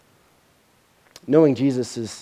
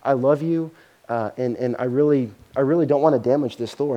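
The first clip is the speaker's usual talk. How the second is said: calm father. Retold or imitated. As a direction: speak tenderly, like a patient dad. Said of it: "he just very calmly said".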